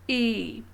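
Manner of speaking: E, said like English ee; the letter I named as ee; French letter I. Shown as a demonstration. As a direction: say E, not I. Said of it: "It is not I, it is".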